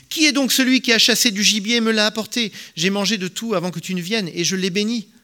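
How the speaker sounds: high, loud, shaken outcry; violent emotion. A narrator's reading. Blind Isaac realizes he blessed the wrong son, crying out in shock. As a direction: cry out, shocked and trembling with it. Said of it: "Isaac fut saisi d'une grande, d'une violente émotion".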